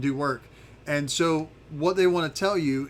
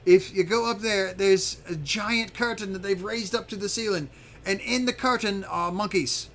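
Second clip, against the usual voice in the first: higher-pitched creature figure giving advice; lightly voiced lookout, explaining the danger; Zarf, confiding a warning; 5 semitones higher than usual. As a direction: warn them earnestly in a raised character voice. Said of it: "he tells you, he says".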